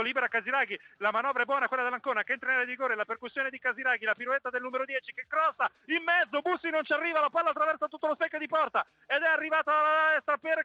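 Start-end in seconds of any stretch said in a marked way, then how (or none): 5.3-10.6 rising, urgent play-by-play; excited commentary. Real, not acted. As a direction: call the chance as it unfolds. Near miss in live commentary.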